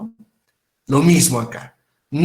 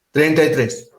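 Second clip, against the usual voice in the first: firm demo; 4 dB louder than usual. Shown as a demonstration. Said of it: "A ver, hagan eso".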